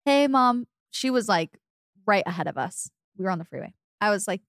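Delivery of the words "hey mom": light, higher-pitched casual greeting; trying to sound offhand; feigned casual. Retold or imitated. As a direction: act breezy as you greet mom. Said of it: "I tried to be so casual".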